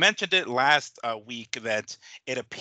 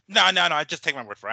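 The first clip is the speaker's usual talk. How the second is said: mock protest; 5 semitones higher, 5 dB louder, faster than usual. Acted dad protesting to his kids.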